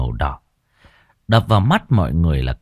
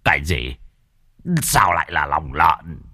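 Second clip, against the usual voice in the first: blurting; 4 semitones lower than usual. Acted. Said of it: "sột sồi".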